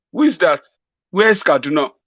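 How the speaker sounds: puzzled questions from a muddled elder; confused old man. Pretend. Confused Buhari asking his aide who died, bewildered.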